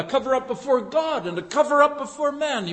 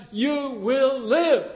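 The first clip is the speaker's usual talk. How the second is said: gentle assurance; 3 semitones higher, much slower than usual. Retold or imitated. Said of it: "as Nathan adds".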